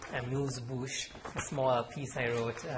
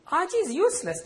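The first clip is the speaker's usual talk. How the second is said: loud, much higher sneering complaint; indignant complaint; 9 dB louder than usual. Acted. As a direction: scoff at your little brother. Brother complains to mother.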